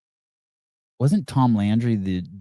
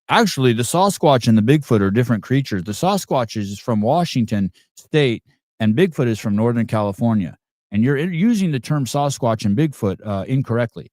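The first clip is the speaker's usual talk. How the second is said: higher-pitched mock know-it-all; hammed-up pedant, pitched up and emphatic; pedantic three-year-old heckler; 3 semitones higher than usual. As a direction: imitate a nitpicking audience member correcting the speaker. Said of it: "some three-year-old in the audience doing that shit".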